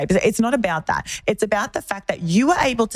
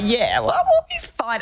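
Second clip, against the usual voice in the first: smug; 4 semitones higher, slower than usual. Retold or imitated. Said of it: "looking at me smugly".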